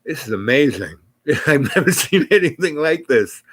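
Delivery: lightly imitated awed coo. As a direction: mimic a sweetheart cooing in wonder. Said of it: "just kind of cooing".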